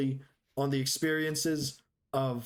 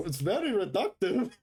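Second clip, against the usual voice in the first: higher-pitched, light Eastern European accent impression; 4 semitones higher than usual. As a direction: mimic a cartoon bear's Eastern European accent. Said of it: "like, Eastern European".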